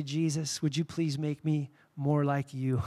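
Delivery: soft, slow, earnest plea; sincere prayer. Real, not acted. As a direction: pray it quietly and sincerely. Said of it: "I just wanna say".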